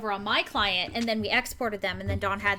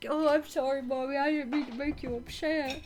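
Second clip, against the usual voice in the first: speaking as a dog; 4 semitones higher than usual. Voicing the whining dog who just got a cookie: voicing the dog. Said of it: "He's like".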